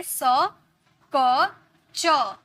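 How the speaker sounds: "स", "क", "च" each apart; three C sounds. Shown as a demonstration. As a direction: model "स", "क", "च" as s, k, ch. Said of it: "pronunciation तीन तरीके से".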